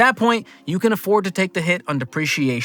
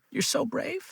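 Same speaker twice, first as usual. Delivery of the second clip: sarcastic reading; 8 semitones higher, 11 dB quieter, slower than usual. Acted. Mocking praise for Tommy.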